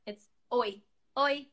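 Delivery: 오이처럼 짧게 oi; Portuguese oi. Shown as a demonstration. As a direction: say "oi" like a quick hi. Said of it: "So first one is how you say hi".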